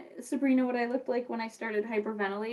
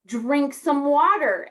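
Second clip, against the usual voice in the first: lightly acted pushy order, drawn out; slow, louder retold command; insistent teacher; 5 dB louder, slower than usual. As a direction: press each word, mildly imitating a teacher. Teacher repeats order more forcefully.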